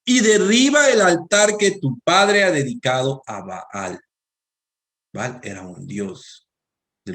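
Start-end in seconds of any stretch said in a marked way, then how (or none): 0.1-4.0 slow, weighty stress on "derriba el altar"; emphatic command. Retold or imitated. Preacher reading God's order to Gideon, slow and emphatic. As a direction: read "derriba el altar" slowly and forcefully, higher at first. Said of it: "escúcheme esto, es muy importante".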